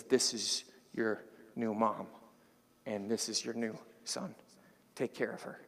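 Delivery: soft, unhurried care; tender, loving. Acted. Jesus on the cross entrusting his mother, tenderly. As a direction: say it gently, with deep love. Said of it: "Maybe there's some love deep in there".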